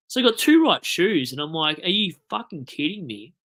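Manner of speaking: high-pitched exasperated retelling; worked-up, indignant disbelief; wound up. Retold or imitated. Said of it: "this is why I'm wound up".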